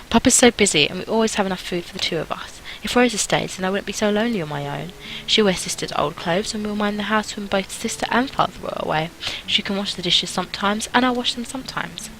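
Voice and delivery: a hint of an eager little girl; lightly voiced earnest girl.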